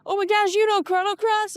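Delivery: imitating an excited fan, high and loud; delighted surprise. Fellow fan finding someone who knows Chrono Cross, excited. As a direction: gush it as a thrilled fellow fan.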